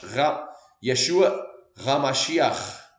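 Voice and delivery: "Yeshua Ramashiach" spoken slowly, syllable by syllable; slow Hebrew pronunciation. Shown as a demonstration. Teacher says the Hebrew name slowly to the class. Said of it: "Exatamente a pronúncia".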